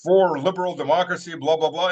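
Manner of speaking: airy mocking voice; mock protester. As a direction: parody their earnest reasons.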